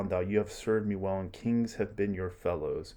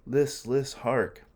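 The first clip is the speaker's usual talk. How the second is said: a sudden, higher, louder call to listen; startled hush; 6 semitones higher, 5 dB louder, much slower than usual. Acted. Soldier on guard to his comrades, startled and higher, calling to listen. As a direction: snap to attention at a strange sound.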